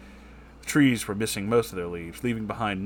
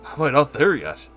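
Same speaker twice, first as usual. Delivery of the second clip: out of breath; 3 semitones higher than usual. Acted. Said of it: "Lewis panted".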